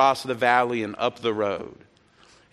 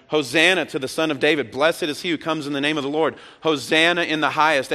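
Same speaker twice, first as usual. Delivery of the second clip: mildly raised, higher proclamation; retold crowd shout; 3 semitones higher than usual. Preacher reading the crowd's cries from verse nine, half shout. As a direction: read the praise as a half-shout. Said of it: "They start shouting".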